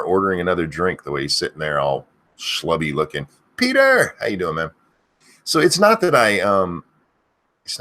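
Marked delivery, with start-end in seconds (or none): 3.6-4.1 high piercing yell; screamed name. Acted. Streamer screaming a viewer's name, shrieking loud. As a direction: scream it at the top of your lungs. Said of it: "I end up screaming too much".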